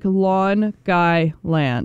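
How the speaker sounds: Long Island run together as "Long Guy Land". Shown as a demonstration. Friends mocking the local way to say it, slurred together. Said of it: "They say it like".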